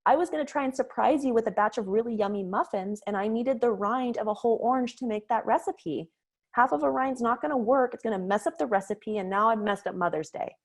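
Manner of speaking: put-on sulky teen brushing off her mom; snooty teen. Teen daughter snubbing her mother, high and snooty. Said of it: "being all snooty".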